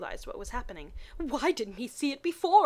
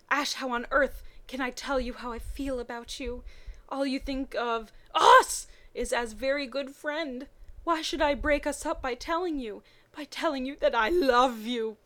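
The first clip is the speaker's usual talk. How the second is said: hammed-up lovesick anguish; 3 semitones higher, 4 dB louder than usual. Misty's anguished love thoughts.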